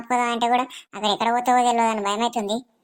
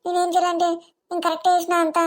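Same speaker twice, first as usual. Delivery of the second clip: pleading protest; 4 semitones higher than usual. Acted. Wife protests to mother-in-law.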